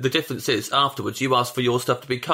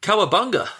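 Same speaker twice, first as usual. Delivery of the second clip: high, loud mock surfer whoop; surfer dude cheer; 9 semitones higher, 4 dB louder than usual. Mocking his own breezy attitude to stand-up, surfer cry. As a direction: ham up a carefree surfer. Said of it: "you're going to stand up like".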